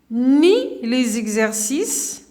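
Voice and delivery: very slow, rising on each ni; slow example. Shown as a demonstration. Teacher dictating an example sentence, very slowly. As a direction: lay out each part slowly. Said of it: "مثلًا نقولوا،".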